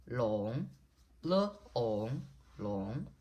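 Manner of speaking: "long" swooping upward at the end; rising second tone. Shown as a demonstration. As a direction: say "long" with a rising glide, split once into "le, ong". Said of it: "Long is the rising tone".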